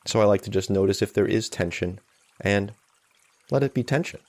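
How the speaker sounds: calm, unhurried meditation guide; guided meditation. Real, not acted. Meditation teacher settling listeners into a morning sitting, calm guided meditation. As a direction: lead them gently, with long silences between phrases.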